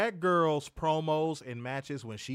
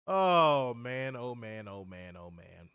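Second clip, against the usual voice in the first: fading sigh; 2 semitones lower, much slower than usual. Real, not acted. Fading lament.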